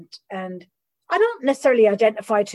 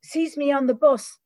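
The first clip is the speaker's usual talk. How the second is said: whiny sponsee worry; 6 semitones higher than usual. Retold or imitated. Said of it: "Or, you know".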